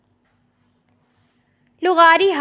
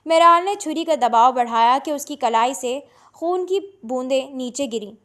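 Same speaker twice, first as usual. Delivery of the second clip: plain reading voice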